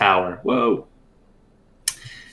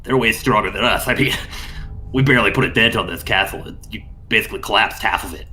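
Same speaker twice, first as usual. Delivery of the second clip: excited kobold; 4 semitones higher than usual. Acted. Kobold ghost gushing over new party.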